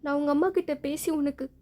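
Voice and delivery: mother scolds her son through tears; angry and tearful. Acted. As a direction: demand how he could do this. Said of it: "அவங்க அழுதுட்டே".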